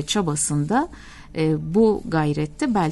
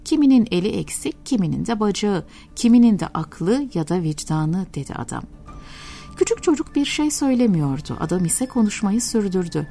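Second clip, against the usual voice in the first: steady storytelling voice, lightly acting both characters; story narration. Preacher reading a parable to listeners, story narration. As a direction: read it like a tender radio tale. Reads a story aloud on air.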